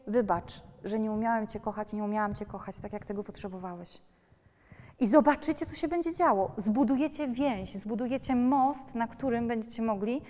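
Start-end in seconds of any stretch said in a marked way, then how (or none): 0.1-4.0 quiet, sincere apology fading away; a soft, heartfelt parent's apology. Shown as a demonstration. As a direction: apologise gently to your child.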